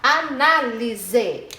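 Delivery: "análise" very slow as a, ná, li, se; drawn-out "análise" for a class; syllables separated. Shown as a demonstration. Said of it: "separe as sílabas da palavra".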